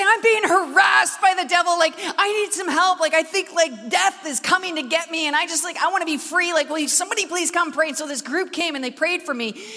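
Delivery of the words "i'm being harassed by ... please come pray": phoning friends in a panic; frantic plea. Retold or imitated. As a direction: beg your friends to pray. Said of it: "I say".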